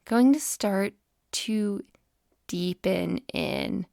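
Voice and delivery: measured breathing cues, phrase by phrase; guided meditation. Acted. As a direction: ease the listener gently into the breath.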